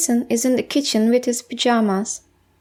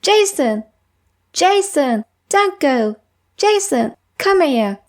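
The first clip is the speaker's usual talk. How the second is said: mildly urgent calling, name pitched up; 3 semitones higher than usual. Acted. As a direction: call them back as they walk off. Calling after a friend walking off.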